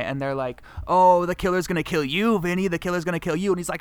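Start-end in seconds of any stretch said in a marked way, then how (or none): 0.9-3.5 mild mock-taunting chant; teasing taunt. Friends teasing Vinny about the killer, mock taunting. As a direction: rib a friend, rising on "you".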